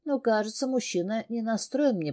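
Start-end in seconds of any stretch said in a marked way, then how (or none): none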